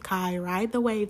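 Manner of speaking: easing into it, slow and steady; calm self-talk. Retold or imitated. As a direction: talk yourself down slowly. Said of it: "the things that I'm telling myself".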